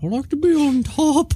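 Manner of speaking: very high, silly novelty character voice. Answering a question about sleeping arrangements in character: high-pitched voice. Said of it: "Is that your new voice?".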